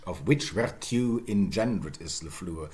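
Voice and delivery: Chaucer line with "virtue" as ver-TYOO; "engendered" and "fluor" in Middle English sounds; Middle English reading. Shown as a demonstration. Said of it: "this would be Chaucer".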